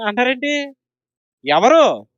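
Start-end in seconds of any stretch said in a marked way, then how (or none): 1.5-2.1 loud call and answer. Shown as a demonstration. Preacher drilling the congregation, loud proclamation. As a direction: call out the question, then boom the answer. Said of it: "గొప్పగా చెప్పాలి".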